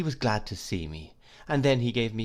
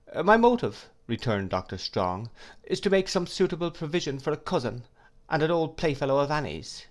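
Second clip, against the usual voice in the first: put-on a lightly higher old scholar's voice, kindly and absent-minded; Doctor Strong voice; 6 semitones higher than usual. A narrator's reading. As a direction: voice the doctor gently, a bit raised.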